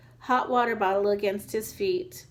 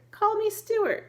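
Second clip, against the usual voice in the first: much higher, eager correction; eager plea; 11 semitones higher than usual. Acted. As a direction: insist on being called Stuart. Stuart insists on his name.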